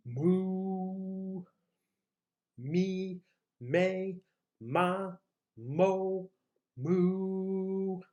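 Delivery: "Me, me, ma, mo, moo" with long held vowels; exaggerated vowels. Shown as a demonstration. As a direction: stretch each vowel in "Me, me, ma, mo, moo". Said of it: "really exaggerate each of those".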